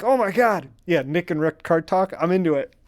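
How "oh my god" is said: mock freak-out. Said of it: "I lose my mind".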